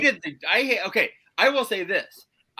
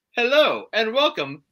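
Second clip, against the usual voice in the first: stiff robotic host; 2 semitones higher, 4 dB louder than usual. Retold or imitated. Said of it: "he's like".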